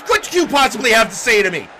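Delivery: fast indignant challenge. Acted. Wrestler challenging the Sith Lord to speak, fast and indignant. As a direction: rattle the question out in one angry rush. First take, rattled out fast.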